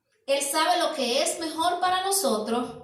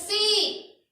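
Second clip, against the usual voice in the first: worn-down yes; 7 semitones higher, 4 dB louder than usual. Retold or imitated. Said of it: "Y tú le dices".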